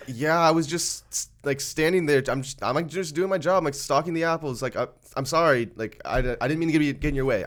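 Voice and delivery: really apologetic. Retold or imitated. Retelling his apology to an angry store member, really apologetic. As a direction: explain yourself apologetically, lightly acted. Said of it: "I'm just trying to be really apologetic".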